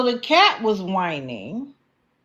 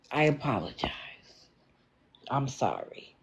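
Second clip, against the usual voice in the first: low, soft, sincere apology; contrite; 7 semitones lower, 10 dB quieter than usual. Real, not acted. Host apologizing to a viewer she misread, contrite. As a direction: say sorry quietly, letting it drop.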